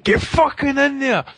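high excited shout; yelling at the TV. Retold or imitated. Watching the fight, yelling at the TV in excitement. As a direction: urge the fighter on at the screen. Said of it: "I was like".

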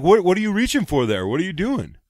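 high startled mock panic; alarmed question. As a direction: ask in rising alarm. Doug alarmed at her reach.

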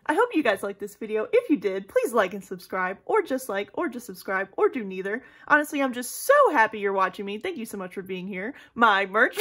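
recited YouTuber outro, rattled off with lively emphasis; a lightly imitated vlogger sign-off; Smokey Glow. Vlogger parroting another creator's outro to her viewers, playful imitation. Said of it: "was just reciting her outro".

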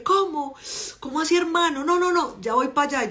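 alarmed at a friend's news, eager to go; teen son on phone. Retold or imitated.

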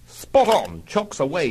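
high, loud eager cry; enthused. Acted. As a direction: cheer like an airman taking off. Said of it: "he enthused".

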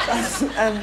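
laughing. Real, not acted. Caller corpses on phone.

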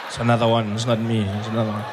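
mock-timid patient; cornered denial. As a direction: plead mistaken identity in a low voice. Cornered patient denying, hoarse voice.

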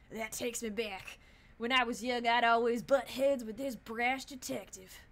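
put-on lightly drawn southern accent. New character recalling an old detective, light southern accent. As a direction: reminisce with a hint of southern accent. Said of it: "like, a southern, southern accent".

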